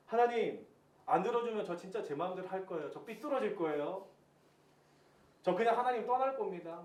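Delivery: acted-out petulant ultimatum to God; half-threaten, like a sulking believer; mild mock threat; retold half-threatening. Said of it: "하나님께 반협박식으로".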